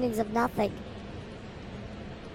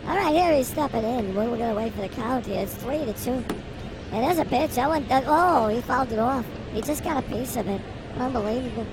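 play-by-play. Acted. Continues play-by-play call.

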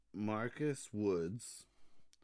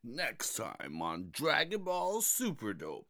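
Dragon Ball announcer voice. Pretend. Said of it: "do your Dragon Ball voice".

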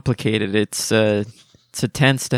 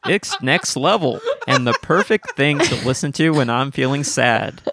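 laughing while reading; 4 semitones higher than usual. Real, not acted. Reading her own review aloud.

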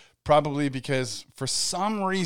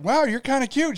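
flirty quote; 11 semitones higher, 4 dB louder than usual. Retold or imitated. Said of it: "I was all like".

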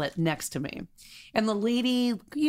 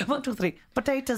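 higher, playful Irish imitation; mock Irish accent; 4 semitones higher than usual. Shown as a demonstration. Echoing co-host's Irish count, mock Irish accent. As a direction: echo a comic Irish accent. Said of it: "I only know Irish".

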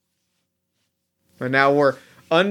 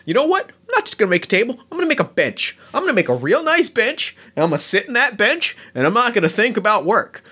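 higher, building rant about a bench; panicked goblin rant; 5 semitones higher, faster than usual. Acted. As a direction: spiral into a frantic daydream. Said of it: "Chops gets real grumbly".

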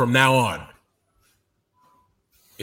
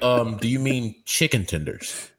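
lower, softly doubtful waitress; imitating a confused server; puzzled waitress; 5 semitones lower, 4 dB quieter than usual. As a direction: gently query the customer's odd order. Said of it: "she'd be like".

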